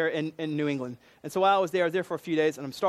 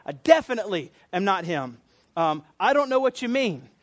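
insistent, raised voice on the denial; emphatic denial; 2 semitones higher, 4 dB louder than usual. Retold or imitated. Peter denying to a servant girl, emphatic denial. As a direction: swear it firmly, as if under oath. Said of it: "I'm gonna call down an oath and say".

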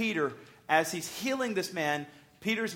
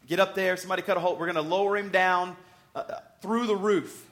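mock urgent orders, a bit louder; raised-voice imitation of men giving orders; 4 dB louder than usual. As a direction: act out organizing friends on a job. Acting out men cutting roof open.

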